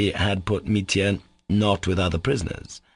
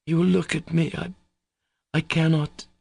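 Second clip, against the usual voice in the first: high, halting plaint; moaning; 9 semitones higher than usual. A narrator's reading. Katya dreads his look, moaning haltingly. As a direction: break off and restart, in a high moan. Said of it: "Katya moaned".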